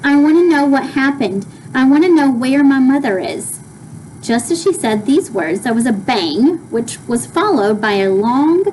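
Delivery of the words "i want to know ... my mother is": a touch louder, insistent. Acted. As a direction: press for answers. Flora demands, read aloud.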